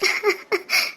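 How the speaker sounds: soft tearful sobs; sobbing. Acted. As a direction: sob quietly under your breath. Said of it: "விடுடி, அழாத".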